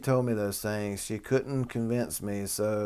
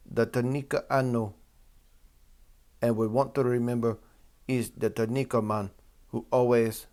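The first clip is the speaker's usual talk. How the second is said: hesitant attempt at a Jamaican accent; bad Jamaican accent. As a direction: read the quote in a wobbly, badly done Jamaican accent. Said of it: "I can't do the accents too good".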